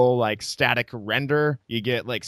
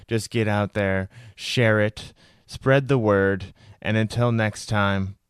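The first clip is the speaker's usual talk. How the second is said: measured, slightly lowered sign-off read; podcast outro read; 3 semitones lower, 4 dB quieter than usual. Real, not acted. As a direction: read the show's closing announcement evenly. Records the show's closing outro.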